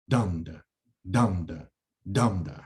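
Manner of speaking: dum-da with stress on dum; strong then weak, hammered; chanting the trochee; trochee beat. Shown as a demonstration. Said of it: "it starts with the strong, uh, syllable".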